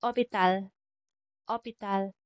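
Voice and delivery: French "Hôpital" starting straight on the o; silent H. Shown as a demonstration. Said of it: "hindi natin binabanggit yung letter H".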